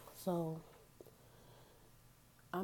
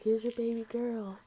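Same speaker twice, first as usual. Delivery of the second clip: slow, proud mother's voice, louder and higher; mom handing over baby; 4 semitones higher, 6 dB louder than usual. Retold or imitated. Mom bringing the newborn to her, slow and proud.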